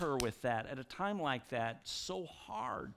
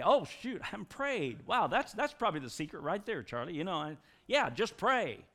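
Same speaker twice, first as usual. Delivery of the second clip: louder fake amazement, dripping sarcasm; sarcastic mock realization; 2 semitones higher, 4 dB louder than usual. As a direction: feign a stunned discovery. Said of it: "You feel like saying".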